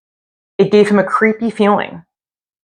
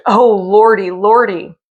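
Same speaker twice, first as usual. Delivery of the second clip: frightened moan; 2 semitones higher, 3 dB louder than usual. Acted. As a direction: groan in terror. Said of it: "the gravedigger moaned".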